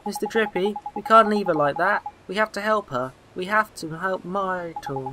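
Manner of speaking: lightly acted young lad urging action; earnest boy hero. Boy begging the fairy to help the girl, earnest plea.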